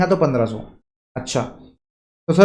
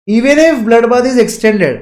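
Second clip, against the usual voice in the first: slow, higher-pitched reading of the line; stretched-out, emphatic line reading; 5 semitones higher, 4 dB louder, much slower than usual. Shown as a demonstration. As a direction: read it out slowly, pitched up for the class. Teacher reads key question line aloud.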